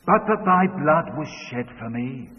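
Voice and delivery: daughter's prompting line; child leading the verse. Retold or imitated. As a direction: say it clearly for him to repeat. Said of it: "say this after me".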